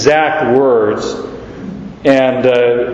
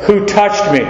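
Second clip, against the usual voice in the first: "Who touched me?" pitched high, stress on WHO; high emphatic WHO, falling through "touched me"; 6 semitones higher than usual. Acted. Christ stops all these people around, emphatic high WHO. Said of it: "makes a statement".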